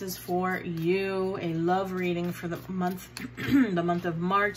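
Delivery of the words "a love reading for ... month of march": talking through a mouthful of chips; words round a bite of chips; mouth full. Real, not acted. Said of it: "Sorry, I was eating some potato chips".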